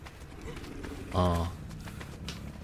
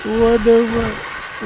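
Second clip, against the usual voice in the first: higher and slow, stretched-out squeal; high squealed disbelief; 10 semitones higher, 4 dB louder, much slower than usual. Real, not acted. Gamer squealing at players attacking him, high and stretched.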